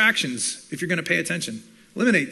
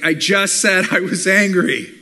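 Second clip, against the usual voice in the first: exasperated, slow and louder; annoyed retort; 7 dB louder, slower than usual. Pretend. Speaker tired of being parroted, slow and exasperated. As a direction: hit each word, fed up. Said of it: "they're gonna be like".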